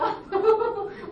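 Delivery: a quick real laugh that falls away; short laugh. Real, not acted. Laughing at her own plea to God. Laughs after retelling prayer.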